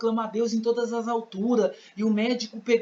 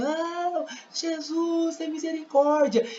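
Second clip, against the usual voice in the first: a much higher desperate cry to Jesus, pleading; clamor desesperado; 8 semitones higher, much slower than usual. Acted. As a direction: beg for mercy as if in anguish. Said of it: "E ele clamava desesperadamente". (clamor desesperado e agudo por misericórdia)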